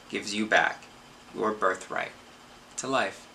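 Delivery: measured recital with firm line openings and pauses; poetry recital. Acted. Reads a poem aloud.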